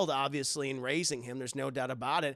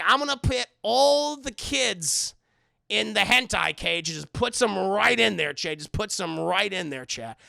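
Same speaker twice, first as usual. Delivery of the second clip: creepy Pennywise; 3 semitones higher, 5 dB louder than usual. Retold or imitated. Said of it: "acting like Pennywise".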